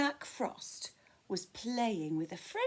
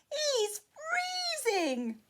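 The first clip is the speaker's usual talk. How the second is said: high, loud goblin king squeal; 3 dB louder than usual. Acted. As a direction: shriek it out as the shocked king. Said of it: "squealed the king".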